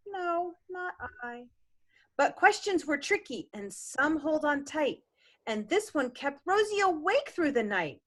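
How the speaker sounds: rhythmic picture-book reading; gentle bedtime-story reading; story narration. A narrator's reading. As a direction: read the rhyme to a child. Parent continues the reading.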